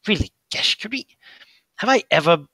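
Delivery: a hurt, whispered protest; whispered creature plea. Acted. Fingermuncher whispering a hurt reproach to Gesh.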